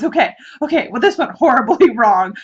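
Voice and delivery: real laughter breaking into the words; laughing retelling. Real, not acted. Telling how the husband's prank went wrong, laughing. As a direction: giggle through the quoted apology.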